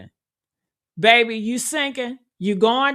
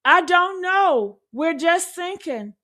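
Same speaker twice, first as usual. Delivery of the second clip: mocking the caller; 5 semitones higher than usual. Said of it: "he can't even answer that".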